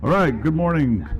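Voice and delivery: a greeting that comes out far too loud. Real, not acted. Speaker greets the conference room, too loud. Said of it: "Now that's way too loud".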